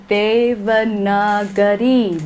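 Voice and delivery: Devanagari slow with every syllable; careful pronunciation. Shown as a demonstration. Teacher asking what the script name means, slow careful. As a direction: say Devanagari slowly and clearly. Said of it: "the emphasis is completely different".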